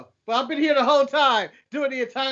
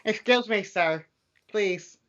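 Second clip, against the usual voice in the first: lower-pitched put-on African accent; mock African accent; 5 semitones lower than usual. The speaker demonstrates how he would talk, mock African accent. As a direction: plead politely in an imitation African accent. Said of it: "This is the way I talk".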